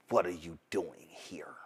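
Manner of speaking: whispered low and cold, eyes narrowed; a quiet, seething whisper; hissed whisper. Retold or imitated. Candace confronting the reporter, hissed whisper. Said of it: "her eyes narrow and she's, like, burning".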